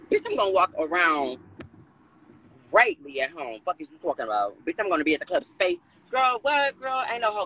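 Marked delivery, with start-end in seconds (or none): 6.1-7.4 scoffing. Real, not acted. Scoffing at the threat.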